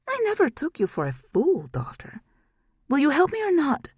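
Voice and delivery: high, mocking taunt; high eerie mocking demon; demon mother's voice. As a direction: bait her as a scheming demon. Demon baits her daughter.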